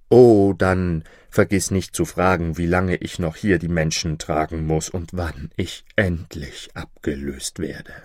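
low, plaintive request to be released; a hint of a burdened ferryman; lightly voiced ferryman. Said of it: "Am Ufer stand ein Mann".

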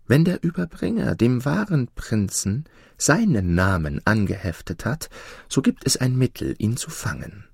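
sly adviser, lightly voiced; scheming servant. Slave proposes a trap.

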